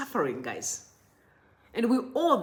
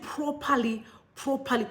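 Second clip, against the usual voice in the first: "properly" repeated as its own phrase, each time stressed; emphatic repetition; 2 semitones higher than usual. Retold or imitated. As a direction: repeat "properly" to drive it home. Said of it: "He emphasized on the word properly".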